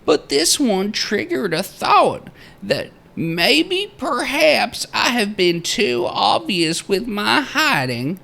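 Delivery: high, loud-edged theatrical proclaiming; old-time miner's journal. Acted. Narrator reading the miner's journal entry aloud, theatrical miner voice. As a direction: read it out like a grandiose frontier diarist.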